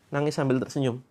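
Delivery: mild mock sob with a smile; crying while smiling. Shown as a demonstration. Coach showing followers how to cry while smiling, mild mock sob. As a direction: demo a teary smile, understated. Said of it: "Coba saya peragakan ya".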